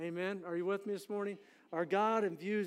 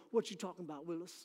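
Arnold catchphrase; 5 dB quieter, faster than usual. Retold or imitated. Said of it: "he'd go".

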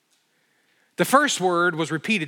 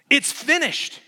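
ringing, much higher, louder proclamation; loud verdict; 11 semitones higher, 5 dB louder than usual. Shown as a demonstration. Preacher proclaiming the writing's verdict to the king, loud. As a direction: declare it finished, full force. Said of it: "which basically means".

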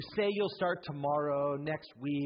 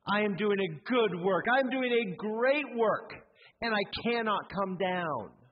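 louder and higher, building resolve; rising proclamation; 5 semitones higher, 3 dB louder than usual. Shown as a demonstration. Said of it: "No matter what comes your way".

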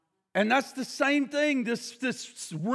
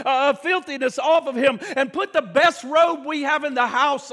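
father calling out; 3 semitones higher than usual. Acted. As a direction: boom the orders across the house. Father calls servants to clothe son.

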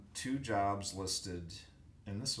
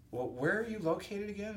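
retold phone question; 12 semitones higher than usual. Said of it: "and I said".

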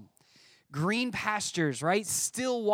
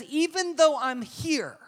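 voicing David's calm resolve; 3 semitones higher, slower than usual. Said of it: "and then he says".

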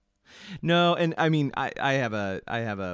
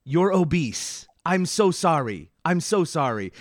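apologetic doctor; 4 semitones higher, 5 dB louder, slower than usual. Retold or imitated. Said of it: "he was very apologetic".

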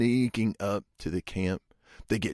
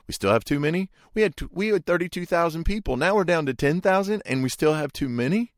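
much higher, pressing on, disbelieving; incredulous protest; 8 semitones higher, faster than usual. Retold or imitated. Preacher voicing Gideon's disbelief at too many men, higher. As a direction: ask it like the numbers make no sense.

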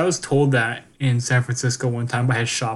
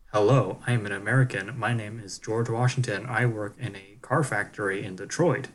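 mock-formal standard American accent, softer; 2 semitones lower, 5 dB quieter than usual. Friend demonstrating America's default accent, parodied standard American accent. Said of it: "Not like the standard".

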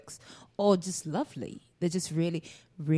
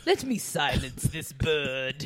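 imitating Michael Scott; 4 semitones lower, slower than usual. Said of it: "He was like".

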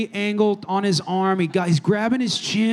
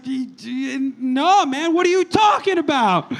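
baffled protest; 2 semitones higher, slower than usual. Retold or imitated. Narrator answers the connoisseur, stammering and baffled. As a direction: stumble out a confused denial.

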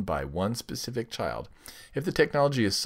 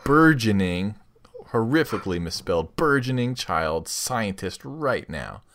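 sultry ad read; 4 dB louder than usual. Acted. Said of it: "Use that sultry voice of yours".

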